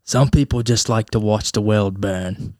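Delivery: lightly done British butler impression; a touch of British accent, understated and measured; Alfred. Co-host quoting The Dark Knight about the driver, light butler impression. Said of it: "take a line out of The Dark Knight".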